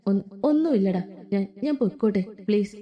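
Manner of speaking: mild pitiful plea; pleading. Acted. Ammu, head bowed, mildly pleading with her friends. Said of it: "ദയനീയമായി പറയുന്നവളെ".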